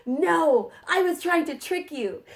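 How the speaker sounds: teacher giggling as she admits the trick; laughing. Real, not acted. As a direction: laugh through the confession of the trick.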